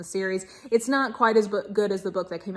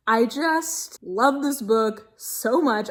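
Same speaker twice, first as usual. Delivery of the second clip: gushing; much slower than usual. Real, not acted. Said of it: "I'm gushing".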